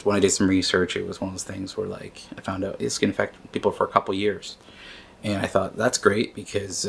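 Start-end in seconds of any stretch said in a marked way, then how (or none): 5.8-6.3 mildly sarcastic, mock-pleased. Man recalls learning brain fog can last years, sarcastic. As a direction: say it with understated sarcasm. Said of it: "I say that with all sarcasm".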